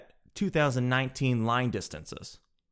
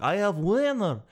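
higher-pitched imitation of an excited winner; mock excited yell; 5 semitones higher than usual. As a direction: announce the win in a put-on voice. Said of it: "Why are you yelling?".

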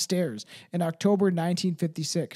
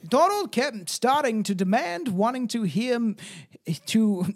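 put-on higher-pitched go at a British accent; attempted British accent; 4 semitones higher than usual. Reader restarting Shirley's account, attempted British accent. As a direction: feel your way into a British accent.

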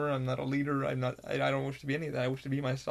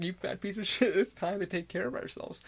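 higher, laughing through the insult; laughing self-insult; 5 semitones higher than usual. Acted. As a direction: chuckle through a playful self-scold.

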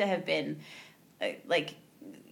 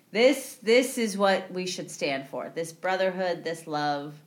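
gushing; 4 semitones lower than usual. Retold or imitated. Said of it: "the Baron is now gushing".

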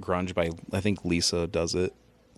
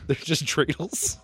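slow, higher goofy delivery; drawn-out mock voice; silly voice; 6 semitones higher, slower than usual. Repeating joke in odd voice.

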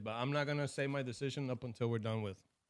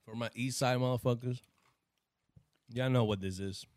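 hype intro; 3 semitones lower, 3 dB louder than usual. Pretend. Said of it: "That sounded like an intro of Def Jam".

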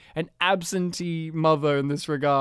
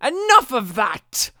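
higher, slow, stern scolding; stern mum; 7 semitones higher, 5 dB louder, slower than usual. Retold or imitated. Mum scolding her son for lying, slow and stern. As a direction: scold like a fed-up mother. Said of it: "the mum sternly says".

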